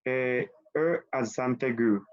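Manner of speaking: slow, careful E accent aigu; pronunciación francesa lenta; French term. Shown as a demonstration. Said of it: "Qué pasa cuando esa E".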